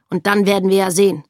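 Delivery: schnell und lauter, leise Drohung; drohender Offizier. Acted. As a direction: kurz angebunden abfertigen. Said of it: "sagte der Offizier". (Offizier führt beide ab, drohend)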